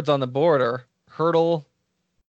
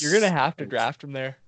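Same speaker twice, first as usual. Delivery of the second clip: yawning. Real, not acted. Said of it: "sorry, I was yawning".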